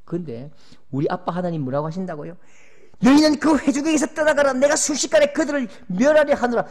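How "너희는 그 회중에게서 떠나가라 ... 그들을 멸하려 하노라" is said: loud, high thundering decree; God thundering at Moses and Aaron; wrathful God. Acted. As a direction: proclaim judgement from on high. God's decree repeated.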